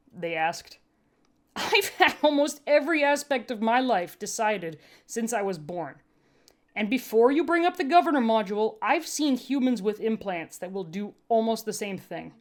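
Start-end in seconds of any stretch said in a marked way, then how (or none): 1.5-12.3 higher, louder blunt medic; wry tired medic arguing; medtech voice. Acted. Medtech voice held.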